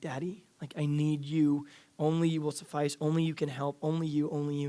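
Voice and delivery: put-on desperate child's plea. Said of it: "the desperation in the voice of a kid".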